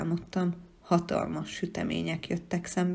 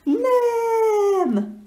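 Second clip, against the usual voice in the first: piercing long high shriek; 8 dB louder than usual. Acted. The No creature shrieking a hair-raising no. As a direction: shriek it till the hair flies. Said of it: "sivította".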